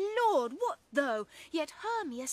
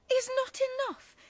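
hurt indignation; 4 semitones higher than usual. Acted. Helena feels mocked by Lysander.

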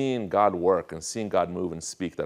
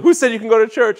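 high, loud mock scolding; imitated outraged mother; 12 dB louder than usual. Mother challenging her child over church, mock outrage. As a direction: play an indignant mom, pitch shooting up. Angry mother quoted in story.

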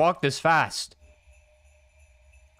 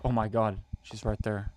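scared whisper; 2 semitones lower, 5 dB quieter than usual. Real, not acted. Streamer hiding quietly.

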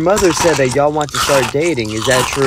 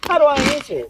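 much higher, eager disbelief; excited; 9 semitones higher than usual. Acted. Dad hearing of the giveaway, high and eager. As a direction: jump at the prize money.

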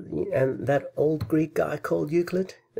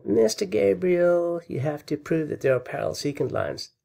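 mock critic; 5 semitones higher than usual. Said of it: "anybody saying".

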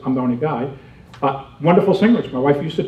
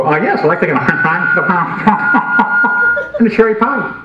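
laughing mock order; 5 semitones higher, faster than usual. Ordering through drive-thru mic.

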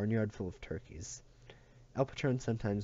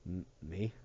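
squeaked; 2 semitones lower, 5 dB quieter than usual. Acted. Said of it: "squeaked Tauntaun".

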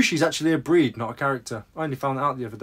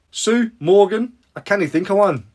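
bad Scottish accent; 4 semitones higher, 5 dB louder than usual. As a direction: have a poor go at sounding Scottish. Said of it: "That was a terrible accent".

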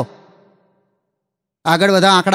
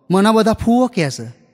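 slow, deadpan ફૂવો drawn out at the end; slow punchline; 3 semitones higher, slower than usual. Retold or imitated. Boy explains to teacher why he won't tease, slow deadpan. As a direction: let ફૂવો land slowly.

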